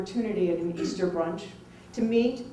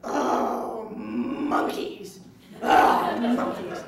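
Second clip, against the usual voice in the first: imitated fright; 3 semitones higher, 5 dB louder, much slower than usual. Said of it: "he went".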